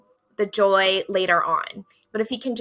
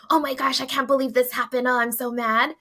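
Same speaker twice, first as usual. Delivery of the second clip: mock venting; 3 semitones higher, faster than usual. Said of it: "let myself talk about it to my friends".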